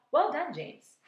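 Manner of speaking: high, loud praise. A narrator's reading. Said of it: "shouted the green grasshopper".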